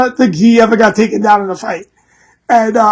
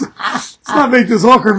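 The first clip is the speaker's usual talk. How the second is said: slowed repeat. Shown as a demonstration.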